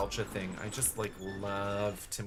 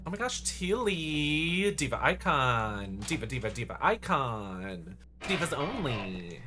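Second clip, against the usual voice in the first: excited; 3 semitones higher, 3 dB louder than usual. Real, not acted. Hyped greeting to raider.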